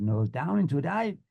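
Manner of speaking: questioning echo of an order; student's repeat. Retold or imitated. Student pilot answering the flying instructor, unsure repeat. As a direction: repeat it back with a rising end.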